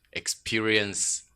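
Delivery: normal talking voice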